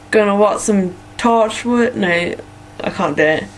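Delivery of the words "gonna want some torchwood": slow, higher, bad hick American accent; unconvincing American country accent; attempted hick American accent. Shown as a demonstration. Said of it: "hick American accent".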